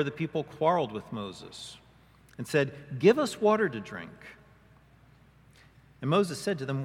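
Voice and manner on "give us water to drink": higher, louder, demanding water; demanding crowd. Acted. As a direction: quarrel like a thirsty crowd. People quarrel with Moses.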